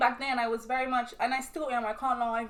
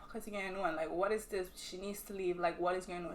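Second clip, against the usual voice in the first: low, quiet inner questioning; muted disbelief; 4 semitones lower, 6 dB quieter than usual. Retold or imitated. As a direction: retell a baffled thought under your breath. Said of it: "I'm like".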